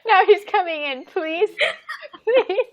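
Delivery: high, loud laughing voice; laughing loudly. Real, not acted. Telling a friend he's coming in to beg, laughing hard. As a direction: squeal the words through laughter. Laughs as Oscar keeps begging.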